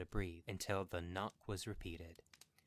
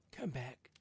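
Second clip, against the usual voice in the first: tender; 5 semitones higher than usual. A narrator's reading. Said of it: "he said tenderly".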